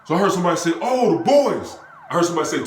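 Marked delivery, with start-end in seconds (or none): 0.8-1.8 high-pitched alert from a bystander; raised retold lookout cry; imitated warning call. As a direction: call out that police are coming. Bystander's warning that police come.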